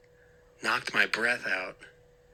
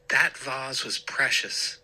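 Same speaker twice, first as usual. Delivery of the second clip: stern and louder; angry; 4 semitones higher, 4 dB louder than usual. Acted. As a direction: scold with anger. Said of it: "Dad said angrily".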